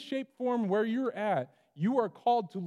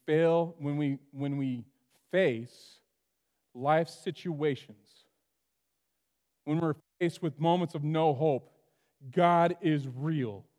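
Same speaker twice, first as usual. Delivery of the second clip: slow emphasis; 3 semitones lower, slower than usual. Real, not acted.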